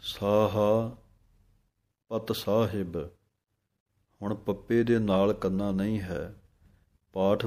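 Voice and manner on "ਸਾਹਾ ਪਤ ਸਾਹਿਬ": ਪਤ said short as pat, no long aa; ਸਾਹਾ then a short ਪਤ ਸਾਹਿਬ; careful pronunciation. Shown as a demonstration. Teacher demonstrating the correct reading, careful short ਪਤ. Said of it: "ਇਸ ਤਰ੍ਹਾਂ ਬੋਲਣਾ ਹੈ".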